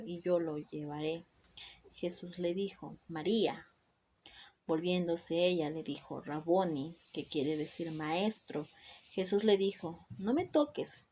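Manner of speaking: measured verse-by-verse reading, pauses between phrases; scripture reading. Acted. Woman reading Mary's encounter with risen Jesus, emphatic scripture reading. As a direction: read the Bible passage aloud with emphatic phrase openings. Reads the scripture passage aloud.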